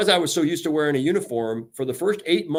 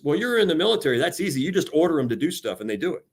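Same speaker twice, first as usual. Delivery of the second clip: mock naive outsider; 3 semitones higher, faster than usual. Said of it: "the fallacy I will tell everybody about".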